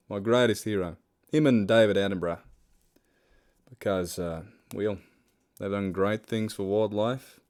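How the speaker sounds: hammed-up Australian accent, loud at first; playful Australian wildlife-fan voice; put-on Australian accent. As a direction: proclaim it in mock-Australian, then settle. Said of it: "my Australian accent's very good".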